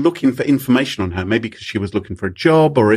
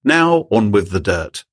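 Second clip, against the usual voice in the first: mock gossip slow; 2 semitones lower, slower than usual. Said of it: "I added that last bit".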